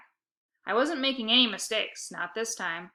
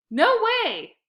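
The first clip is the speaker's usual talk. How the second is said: very high, loud snarl out of the side of the mouth; 14 semitones higher, 9 dB louder than usual. A narrator's reading. Boy snarling at his sister out of the side of his mouth. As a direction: spit it sideways. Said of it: "I snarled out of the side of my mouth".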